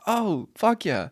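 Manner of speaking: slow, high, drawn-out mock cheer; excited cheer. Host mimicking people welcoming a Scot. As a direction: cheer like a fan meeting a Scot. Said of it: "It's always like".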